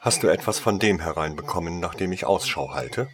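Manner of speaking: brisk, cold demand; used to being obeyed; cold, commanding. Acted. Lady Contagion coldly demanding news from the saleswoman. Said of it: "fragte eine kalte, befehlsgewohnte Stimme".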